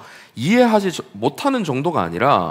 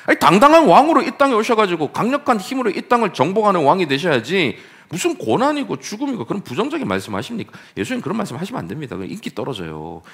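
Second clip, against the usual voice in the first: lightly voiced protesting disciple; Peter rebuking Jesus; 3 semitones higher than usual. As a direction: scold the master like a worried, pushy friend.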